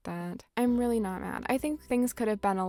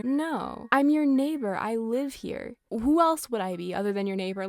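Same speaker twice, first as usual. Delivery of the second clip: indignant; 2 semitones higher, 5 dB louder than usual. Acted. Indignant retort to rude greeting.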